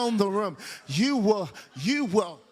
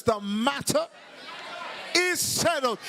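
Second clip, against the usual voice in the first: bold declaration, rising high on the last words; 6 semitones higher than usual. Shown as a demonstration. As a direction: declare it boldly, pausing mid-sentence. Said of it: "Say it with boldness".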